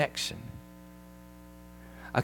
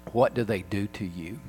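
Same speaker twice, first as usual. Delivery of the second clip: soft, careful question; hushed, sympathetic voice; gentle concern; 2 semitones lower, 6 dB quieter than usual. Retold or imitated. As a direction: ask tenderly, as if to someone in tears. Gentle question to crying girl.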